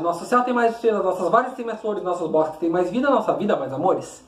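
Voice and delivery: quick, sing-song poetic rhythm; rhythmic declamation. Shown as a demonstration. Teacher showing the rhythm of declaiming the poem. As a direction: bring out the musical beat of the verse. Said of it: "ritmo de entonação ao declamar".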